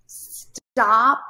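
retold scream. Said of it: "she starts screaming in this really high-pitched, topped-out scream".

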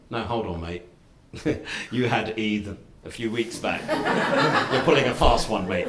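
laughing tease. Retold or imitated. Boss teases him about Eid.

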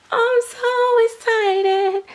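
high, drawn-out squeal; excited squeal. Real, not acted. Doll painter gushing over a new kit, excited squeal. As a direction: squeal it slowly, overcome with delight.

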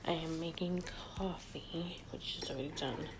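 hushed so the house sleeps; whispering. Real, not acted. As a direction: whisper it softly. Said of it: "Sorry I'm speaking low".

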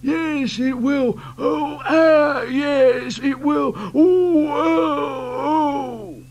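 creaky groaning trucks; groany creaky voices. Acted. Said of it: "groany, creaky sort of voices".

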